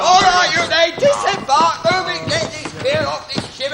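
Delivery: sergeant's shout. Acted. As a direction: shout them off the ship. Sergeant orders troops off ship.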